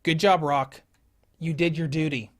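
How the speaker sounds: loud proud praise; cheering. Real, not acted. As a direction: cheer him on loudly. Praising game character loudly.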